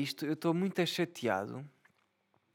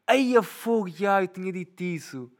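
imitating the kid; 5 semitones higher, 3 dB louder than usual. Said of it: "Ele fez tipo".

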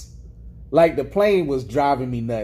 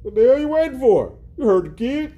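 angry townsman; 7 semitones higher, 3 dB louder than usual. Retold or imitated. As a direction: bark it like a riled-up small-town man. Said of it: "the first dude was like".

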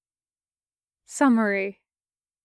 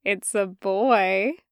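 sly teasing; slower than usual. Acted. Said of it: "with a sly look added".

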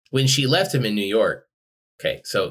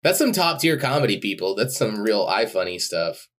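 sarcastic praise. Real, not acted. Teasing a co-host over a lousy image, sarcastic. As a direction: heap on the fake admiration.

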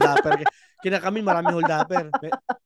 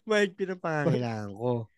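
polite robber; 4 semitones lower, 5 dB quieter than usual. Retold or imitated. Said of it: "hold upper ng magalang".

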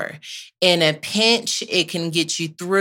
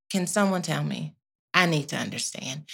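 hushed plea; 3 semitones lower, 6 dB quieter than usual. Real, not acted. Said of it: "pleading repeat softer".

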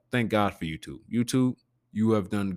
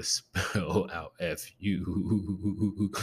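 slow, drawn-out letters breaking into a chuckle; amused, dragged-out spelling; laughing spell-out; 2 semitones higher, much slower than usual. Retold or imitated. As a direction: stretch the spelling out and giggle through it.

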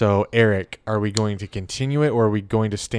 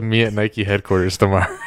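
laughing shout. Retold or imitated. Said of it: "he said".

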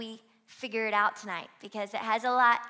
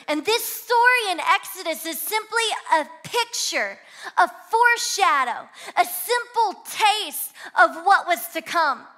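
rising, higher and louder toward a shouted climax; full-force preaching; 7 semitones higher, 11 dB louder than usual. Real, not acted. Preacher crying out to the congregation, building to a shout. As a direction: build the sermon to a roaring peak.

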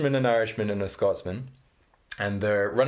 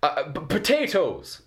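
faltering fake potatoes; 6 semitones higher than usual. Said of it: "the Irishman goes".

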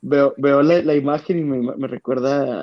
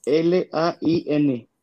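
very slow spelled letters; over enunciating; 2 semitones higher, much slower than usual. Shown as a demonstration. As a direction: drag out each letter separately. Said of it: "deletréalo". (letras muy lentas y separadas)

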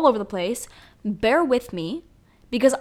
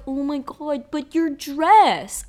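slow, higher gushing reporter fuss; mock interviewer; 4 semitones higher, 3 dB louder, slower than usual. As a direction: parody a shallow red-carpet reporter. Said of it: "where they're like".

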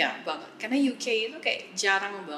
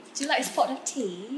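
higher-pitched British offer, amused; playful British accent; 4 semitones higher than usual. Pretend. Joins in imitating British offers. (logat British main-main, nada tinggi)

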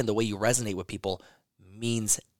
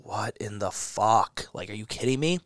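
slow, drawn-out disbelief at bad news; imitating his own baffled what-the; incredulous. Retelling how he reacted to office chaos, slow and incredulous.

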